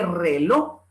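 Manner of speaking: RELOJ drawn out without the J; "reló", open final O; Andalusian reloj. Shown as a demonstration. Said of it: "tal cual en Andalucía lo pronuncian".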